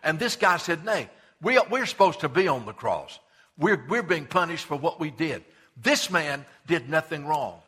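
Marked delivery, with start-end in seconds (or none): 0.8-5.4 earnest rebuke. Acted. Repentant thief rebukes the other.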